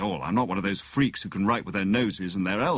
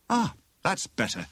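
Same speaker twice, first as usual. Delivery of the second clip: lifted, relieved voice; light and pleased, higher in pitch; cheerful; 8 semitones higher than usual. A narrator's reading. Freed prisoner stretches his arms, cheerful. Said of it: "he said cheerfully".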